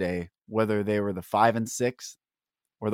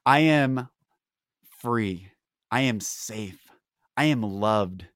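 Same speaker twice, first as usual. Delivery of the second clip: spoken affirmation. Shown as a demonstration. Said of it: "that's my affirmation that I give myself".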